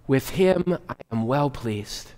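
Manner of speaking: slow, solemn divine proclamation; voice from heaven. Retold or imitated. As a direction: announce it slowly like God from heaven. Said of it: "a voice from heaven said".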